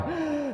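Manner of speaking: high, soft exhale; acted sigh. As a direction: imitate a cooling-down sigh. Showing himself cooling down on bed.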